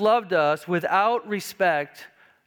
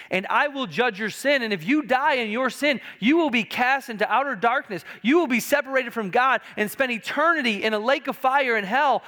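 higher-pitched, emphatic preacher voicing God's warning; God pronouncing judgment; 6 semitones higher than usual. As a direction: lightly voice God as an insistent judge. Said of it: "And he has said".

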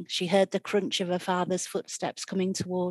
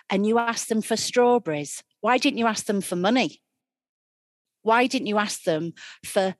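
loud, furious berating; angry scolding stepmother; 5 dB louder than usual. Acted. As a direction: tear into her, shouting.

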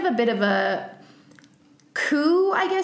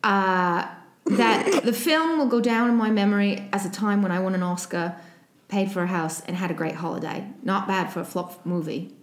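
Michael Caine impression. Podcaster quoting Michael Caine on Jaws, light Cockney accent. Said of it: "if I can do it in his accent".

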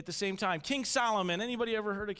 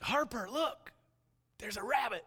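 put-on raised pitch, parent alerting a child; excited pointing-out; 7 semitones higher than usual. Dad showing his little daughter a rabbit, excited prompting. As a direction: get a small child to look, voice lifted.

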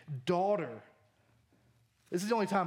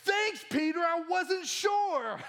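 sarcastic thanks; 11 semitones higher, much slower than usual. Pretend. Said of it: "And Jesus is like".

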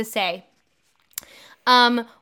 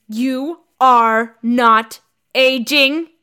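loud, slow, each word apart; mock growl; 5 dB louder, much slower than usual. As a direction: grind out every word in mock rage. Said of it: "I growled".

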